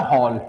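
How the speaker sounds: hall with the English in-between vowel. Shown as a demonstration. Teacher contrasting three words for class, "aw" in hall. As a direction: say hawl, between haal and hol. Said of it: "इस हॉल का मतलब क्या".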